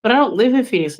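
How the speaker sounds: high, disbelieving "really?"; mock astonishment, pitched high; incredulous. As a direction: sound baffled by the advice.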